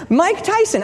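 high, slow, laughing repeat of the name; laughing recall. Real, not acted.

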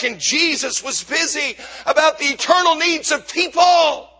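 impassioned preaching. Real, not acted. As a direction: drive it home to the congregation with punched words. Preacher drives the point home.

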